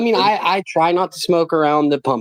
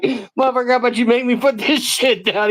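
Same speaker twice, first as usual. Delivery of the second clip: higher, lightly voiced challenge; mock tough-guy retort; 7 semitones higher than usual. Retelling the friend's fight to him, a lightly mocking tough voice. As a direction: play the cocky fighter lightly.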